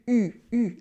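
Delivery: U with rounded lips pushed forward, front of the mouth; French U sound. Shown as a demonstration. Teacher showing learners the French U, lips pushed forward. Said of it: "It is a U".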